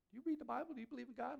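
lightly voiced skeptic firing questions; imitating a probing coworker. Coworker John quizzing the speaker.

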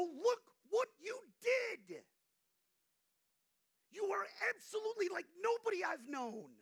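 high, loud preaching shout; a high-pitched, loud exclamation. Retold or imitated. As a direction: belt it out from the pulpit. Preacher voicing an outburst.

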